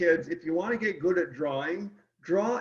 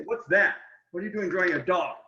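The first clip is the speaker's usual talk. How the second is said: indignant cats; 3 dB louder, faster than usual. Retold or imitated. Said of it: "they say".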